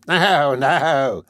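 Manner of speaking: a hint of a toothless crone; old hag. Second hag mocking the matron, lightly voiced crone.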